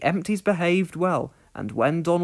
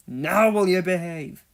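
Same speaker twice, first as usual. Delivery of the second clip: louder stern growl; 2 semitones higher, 6 dB louder than usual. Acted. Donald growling at the runaway trucks, stern. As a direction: warn them firmly. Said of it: "he growled".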